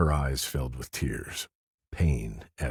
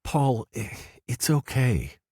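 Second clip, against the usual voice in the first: soft; 10 semitones higher, slower than usual. A narrator's reading. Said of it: "she said softly".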